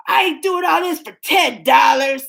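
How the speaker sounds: mock teen protest, near a shout; defiant son. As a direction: scoff at the offer. Son refusing ten dollars.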